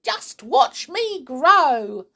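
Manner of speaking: high, slow and loud boast; boastful shout. A narrator's reading. Grandma shows off her growing to George, boastful shout. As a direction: draw it out, showing off loudly. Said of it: "she shouted".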